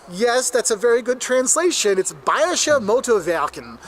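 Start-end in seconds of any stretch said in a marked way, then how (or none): 2.1-3.8 "Bayerische Motorwerken" slowly, W as v; careful German "Bayerische Motorwerken", bye-er-ish-uh; German pronunciation. Shown as a demonstration. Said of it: "That's how it's actually said".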